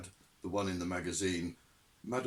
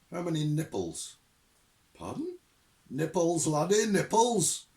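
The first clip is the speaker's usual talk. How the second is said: loud, high and impatient; old sergeant losing patience with the recruit; testy; 9 semitones higher, 8 dB louder than usual. Acted. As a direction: snap the question like a drill sergeant. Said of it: "said the voice testily".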